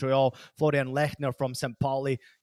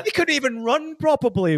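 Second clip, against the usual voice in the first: laughing; 10 semitones higher, 6 dB louder than usual. Real, not acted. Mocking teammate, laughing.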